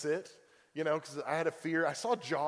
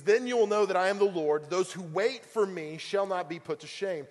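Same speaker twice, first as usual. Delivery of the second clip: voice of God; 3 semitones higher, 5 dB louder than usual. Retold or imitated. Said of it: "And he says".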